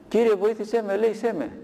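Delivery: high pleading cry, voice lifted; shouting for help. A narrator's reading. Rich man sees the demons, cries out in panic. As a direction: call out to the Lord in fear. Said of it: "άρχισε να φωνάζει".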